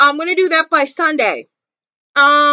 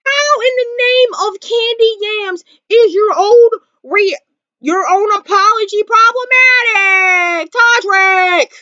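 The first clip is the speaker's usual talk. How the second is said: exasperated shout; 4 semitones higher than usual. Real, not acted. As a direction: throw the question at him, fed up. Exasperated outburst at Todrick.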